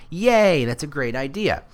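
high-pitched little cheer; hammed-up glee, pitched high; mock delight. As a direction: cheer like a naively pleased client. Acting brand's delight at the idea.

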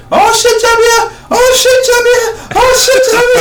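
high-pitched mock French shout of "Jabir"; French accent. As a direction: meniru ibu yang meneriakkan "Jabir" dengan logat Prancis, suara tinggi. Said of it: "Why are you saying my name like you French".

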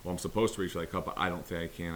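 quick, hesitant self-doubt; doubtful. Retold or imitated. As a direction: rattle off the excuse, unsure. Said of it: "if you're literally saying".

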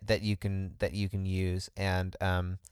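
sick, talking while lying flat; lying on floor sick. Real, not acted. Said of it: "I'm laying on the floor 'cause I'm sick".

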